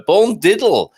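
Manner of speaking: broad Yorkshire twist on "bon diddle"; Yorkshire bon dia. Shown as a demonstration. Host greeting listeners, Yorkshire "bon diddle" joke. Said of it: "This is the Yorkshire equivalent".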